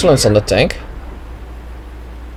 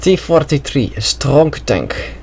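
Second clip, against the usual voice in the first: weak mock Russian accent, slow and softer; 3 dB quieter than usual. Commentator hails the T-43 tank in a bad mock Russian accent. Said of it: "my Russian accent ain't that good".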